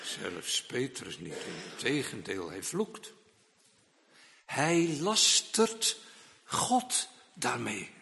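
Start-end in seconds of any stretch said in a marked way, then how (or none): 4.4-7.9 slow weighty charge. Acted. Preacher's slow emphatic charge.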